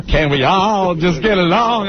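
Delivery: pleading peacemaker impression; mock heartfelt appeal; Rodney King. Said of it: "I was Rodney King".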